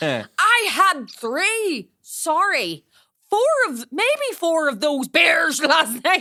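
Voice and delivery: loud, slow, stretched-out yelling. Retelling how a man yells at someone while correcting himself; imitating a man yelling. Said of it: "apologizes and corrects himself while he's yelling".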